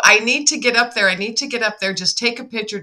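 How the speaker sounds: high-pitched, eager insistence easing off; retold urgent plea. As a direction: act out pressing your brother for a favour.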